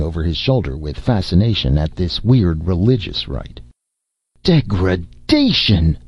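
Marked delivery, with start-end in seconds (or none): 4.4-6.0 slow, drawn-out condemning cry; a mild preacher's thunder, stretched slow. Acted. Micah condemning Jason for bathing the girl, slow mock thunder. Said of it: "Micah thundered".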